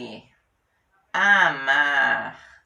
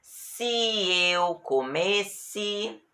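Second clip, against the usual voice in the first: slow example; 4 semitones higher, much slower than usual. Shown as a demonstration. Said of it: "Olha o se".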